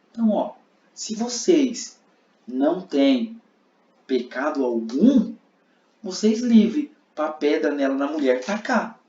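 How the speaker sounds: Jesus desafiando. Acted.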